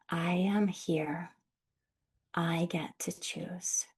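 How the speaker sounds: slow, breathy whisper to yourself; slow whispered self-affirmation; whispered repeat. Shown as a demonstration. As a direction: whisper it back to yourself, gently. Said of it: "gently repeat that to yourself".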